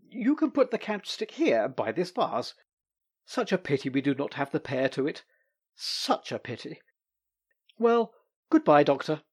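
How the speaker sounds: lightly voiced young man, gracious and pleased; a hint of an eager young visitor; Sasha's voice. Young Sasha bidding the Doctor farewell, lightly voiced.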